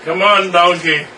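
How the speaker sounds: loud, slow call to a stubborn donkey; urging the donkey. Acted. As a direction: coax the donkey along, drawn out. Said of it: "I'm like".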